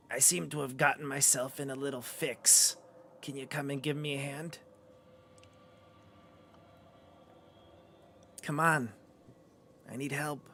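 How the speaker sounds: soft, raspy marionette. Acted. Tangled skeleton puppet asks adventurers for help, soft raspy voice. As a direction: plead softly in a raspy undertone. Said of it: "a raspy voice says".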